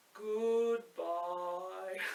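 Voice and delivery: put-on soft, really low, grumbly old giant voice. Leading a group in saying goodbye as low as they can, in a low old grumbly giant voice. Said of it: "like an old grumbly giant".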